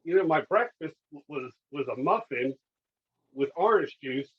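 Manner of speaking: venting at the doctor, half mock indignation; exasperated retort. Patient snapping back at the doctor over insulin, exasperated. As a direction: pitch jumps way up on the opening question, then settles. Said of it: "I'm like".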